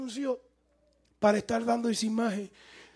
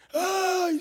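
mock wail; 9 semitones higher than usual. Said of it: "salió llorando".

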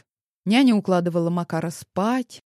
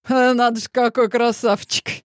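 mocking chuckle; 5 semitones higher, 5 dB louder than usual. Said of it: "хохотнул полковник".

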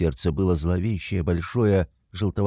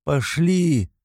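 высокий резкий окрик; оборви его криком; 8 semitones higher, 3 dB louder than usual. A narrator's reading. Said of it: "крикнула на него". (жена резко кричит на мужа)

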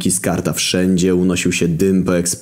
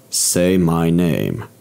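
slow menacing demand; much slower than usual. Acted. Barman demands his name.

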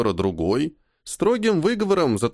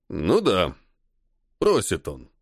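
ironic; 5 semitones lower, slower than usual. A narrator's reading. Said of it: "с иронией сказал полковник".

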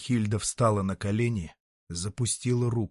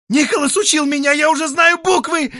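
hotly, much higher and louder; heated; 10 dB louder than usual. Acted. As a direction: fire it back defiantly. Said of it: "запальчиво сказала Рихильда". (запальчиво, громко)

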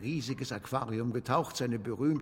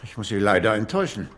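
brusque refusal; 3 semitones higher, 6 dB louder than usual. Acted. Irritated author refusing interview.

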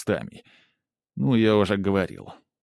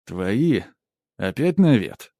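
indignant; 3 dB louder, slower than usual. Acted. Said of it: "возмутился я".

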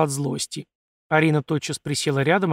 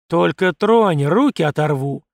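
icy tone; 6 dB louder, slower than usual. A narrator's reading. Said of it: "проговорил я ледяным тоном".

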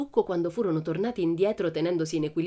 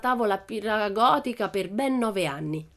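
a lightly voiced cheeky girl, a bit higher; a hint of a bold little girl, pleased with herself; Pippi; 5 semitones higher, 3 dB louder than usual. Pippi answers the teacher, lightly voiced girl.

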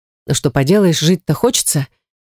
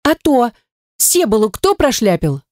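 higher, cheeky challenge; hands-on-hips witch, lightly voiced; 6 semitones higher than usual. A narrator's reading. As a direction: scold him like a sassy girl. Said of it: "подбочинилась я".

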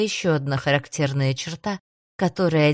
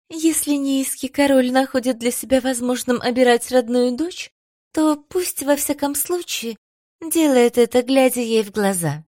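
higher, louder, full of dignity; dignified; 7 semitones higher, 3 dB louder than usual. A narrator's reading. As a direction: speak with proud dignity. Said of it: "тоном, полным чувством собственного достоинства".

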